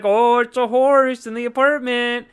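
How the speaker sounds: high, fussy cleaning lady. Retold or imitated. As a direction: whine it like a put-upon maid. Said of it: "the cleaning lady's like".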